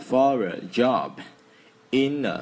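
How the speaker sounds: slow "for a" run together as one; linked sounds. Shown as a demonstration. Teacher showing students how words link. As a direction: link "for a" and "in a" smoothly. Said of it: "nối âm đây ạ".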